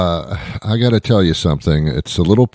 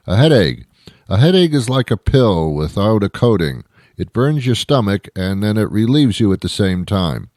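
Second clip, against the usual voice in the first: mock sage voice. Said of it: "Why, why are you saying these things?".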